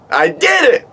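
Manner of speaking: triumphant squeal. Retold or imitated. Bat flies off, high triumphant cry. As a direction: squeal it like you won. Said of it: "I screamed".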